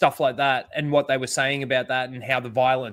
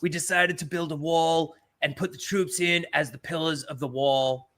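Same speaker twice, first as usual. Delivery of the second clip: Trump impression; 2 semitones higher than usual. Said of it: "my shitty Trump impression".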